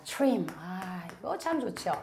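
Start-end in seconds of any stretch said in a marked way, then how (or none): 0.0-0.5 trim, crisp English t-r cluster; trim said clearly. Shown as a demonstration. Teacher modelling trim for students. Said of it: "trim 한번 보겠습니다".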